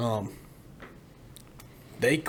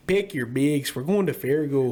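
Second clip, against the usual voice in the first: lightly imitated Fargo accent; mock North Dakota twang. Shown as a demonstration. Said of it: "that's my base".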